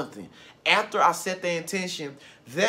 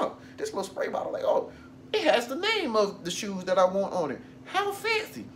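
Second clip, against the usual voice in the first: delighted finder; 3 semitones higher than usual. Retold or imitated. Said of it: "you're gonna be like".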